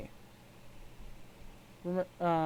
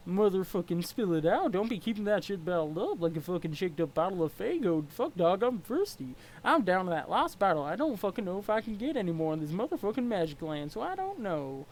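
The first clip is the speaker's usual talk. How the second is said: easygoing troll, loose and friendly; a lightly voiced laid-back troll; mellow clown troll. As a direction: chill like nothing bothers you. Gamzee troll voice.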